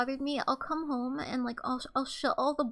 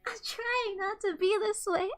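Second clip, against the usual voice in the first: mock crying; 4 semitones higher than usual. Fake crying apology.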